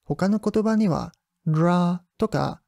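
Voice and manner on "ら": ら with the tongue tip touching the palate; non-English R. Shown as a demonstration. Teacher contrasting other languages with English, tongue-contact R. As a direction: make ら a foreign R with tongue contact. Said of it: "舌先を口外に触らせるRの発音方法".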